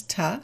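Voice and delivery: TO reduced to a short "tuh". Shown as a demonstration. Teacher shows learners the weak form TA for TO. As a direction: say TA for TO with a neutral vowel. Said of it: "to" becomes".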